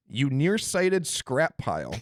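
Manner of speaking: slow, faintly British delivery; hint of British accent. Host reading out C-3PO's insult, near-British accent. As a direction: read it slowly with a slight British lilt. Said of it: "You damn near said it in a British accent".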